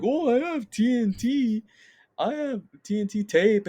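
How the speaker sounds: high-pitched cartoon voice; cartoon character impression. Retelling the TNT scene to a friend, high cartoon voice. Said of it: "'cause he's like".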